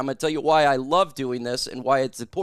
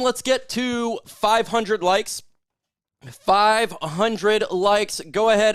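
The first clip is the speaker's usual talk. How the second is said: slow drawn-out call for likes; hyped like goal; 5 semitones higher, slower than usual. Real, not acted. Streamer rallying viewers to five hundred likes, drawn out. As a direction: stretch it out to rally the chat.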